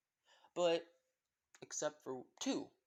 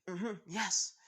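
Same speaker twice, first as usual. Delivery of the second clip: higher, louder eager yes; excited agreement; 5 semitones higher, 5 dB louder than usual. Acted. Jessie and Dylan agree to help teach English, excited. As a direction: agree eagerly with a lift in pitch. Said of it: "shake their heads in excitement".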